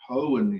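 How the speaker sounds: "Hoen" with a short, reduced E. Shown as a demonstration. Teacher explains the adjective to a student, short E. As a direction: end "Hoen" in "un", no long ee. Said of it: "pronounce it with the shorty sound".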